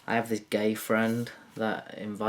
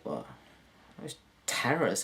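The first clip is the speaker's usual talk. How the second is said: ordinary talk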